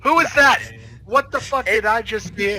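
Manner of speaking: jealous wife catching another woman's voice; shouting suspicion down the phone. Acted.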